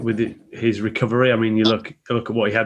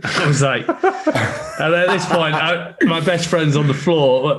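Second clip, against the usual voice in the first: laughing; 5 semitones higher, slower than usual. Real, not acted. Laughing while retelling.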